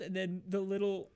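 normal talking voice

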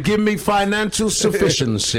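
high, loud, hugely stretched vowels; mock civil-rights orator. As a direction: hold the key words like a rally speaker. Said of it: "He's like this".

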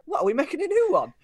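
high, loud what; blindsided by the news; retold stunned question; shocked disbelief.

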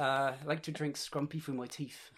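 slow, hammed-up West Country yokel accent; broad West Country. Bristol guest joking about cider in a slow West Country drawl. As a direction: lay the Bristol accent on thick, slowly. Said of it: "that accent".

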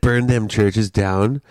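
slow, weighty punchline; slow dramatic delivery. Retold or imitated. Quoting the comic's rallying line, slow and heavy. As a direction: let each word land. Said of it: "when he said".

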